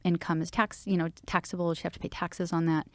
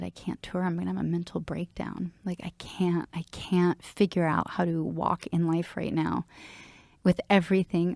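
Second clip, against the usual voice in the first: holding back tears while reliving it; real emotion. Real, not acted. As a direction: voice dropping away under real emotion. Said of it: "I'm getting so emotional".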